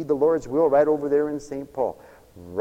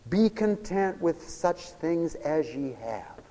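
soft reverent reading; 3 semitones higher, 6 dB quieter, slower than usual. Shown as a demonstration. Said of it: "Listen to it".

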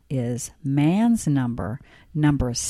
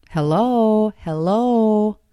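higher, louder put-on hello; morning voice; 6 semitones higher, 4 dB louder, slower than usual. Real, not acted. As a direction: sing out a cheery hello. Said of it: "This is my morning voice".

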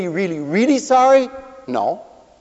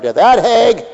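muttered grudge; 7 dB louder than usual. Retold or imitated.

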